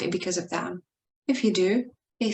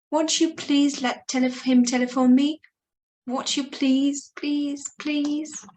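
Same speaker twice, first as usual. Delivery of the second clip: desperate pleading; 6 semitones higher than usual. Acted. Praying desperately to God for call.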